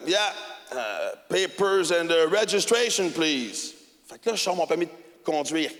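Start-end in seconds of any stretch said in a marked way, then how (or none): 0.1-3.7 gruff cop. Retold or imitated. Imitating the American cop.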